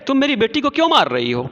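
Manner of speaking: a lighter retake of the scolding, fast; milder angry mother. Acted. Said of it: "मलासा की माँ ने कहा".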